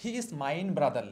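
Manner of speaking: "He is mine brother" said slowly; slow wrong answer. Shown as a demonstration. Teacher quotes students' wrong answer, slow. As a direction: quote the common mistake slowly. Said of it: "অনেকে আবার".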